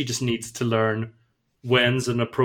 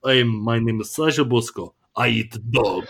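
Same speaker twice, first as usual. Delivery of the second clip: put-on Russian accent. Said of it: "the Russian, eh, impression you just done there".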